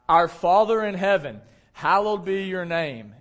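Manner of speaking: slow, measured recitation of the Lord's Prayer; slow prayer reading. Real, not acted. Pastor leading the church in the Lord's Prayer, slow and measured. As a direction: read each phrase deliberately, like a prayer.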